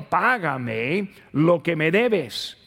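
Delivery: lento, cortante, exigiendo el pago; exigencia dura. Acted. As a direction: como siervo implacable que aprieta el cuello. Siervo exige el pago al consiervo. (siervo al consiervo: exigencia lenta y dura)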